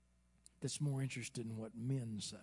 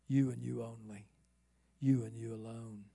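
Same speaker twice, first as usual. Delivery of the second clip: measured question with a punched opening "You"; emphatic YOU; 4 dB louder than usual. Shown as a demonstration. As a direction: hit the first "You" hard, then let the rest fall. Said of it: "put it at the front with emphasis".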